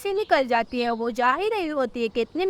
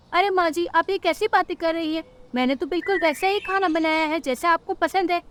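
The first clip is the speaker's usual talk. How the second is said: higher-pitched, mildly hurt bird wife; protesting daughter-in-law; 5 semitones higher than usual. Acted. Rano defends her cooking to mother-in-law, protesting.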